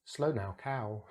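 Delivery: slow now cow said as clear models; model words. Shown as a demonstration. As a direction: sound out each word. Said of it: "This o sound".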